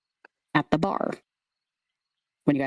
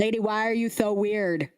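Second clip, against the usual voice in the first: put-on higher childish lisping voice; lisping scarecrow kid; 5 semitones higher than usual. Kid confronts the odd lady, lisping. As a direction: pester bluntly with a lisp. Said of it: "The lisp".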